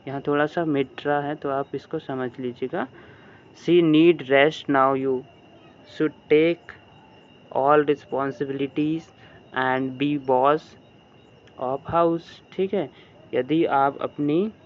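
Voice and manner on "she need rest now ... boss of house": very slow, word by word; slow dictation reading. Shown as a demonstration. Teacher reading the English sentence slowly to pupils. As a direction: read each word out for the class to follow.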